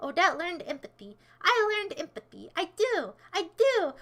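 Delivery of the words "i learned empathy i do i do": higher, insistent comeback; indignant retort. Real, not acted. Streamer answers chat's empathy remark, indignant. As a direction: push back on the claim, pitch lifted. Retorts to the comment just read.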